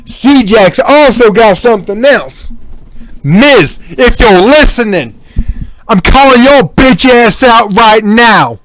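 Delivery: wrestling promo. Real, not acted. Calling out rival wrestler.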